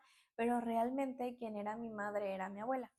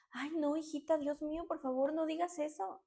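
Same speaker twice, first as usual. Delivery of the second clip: higher-pitched, mock distressed begging; shocked pleading; 5 semitones higher than usual. Grandmother pales at the adoption joke, acted shocked plea. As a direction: act out a grandmother turned pale with alarm. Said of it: "se puso así como pálida".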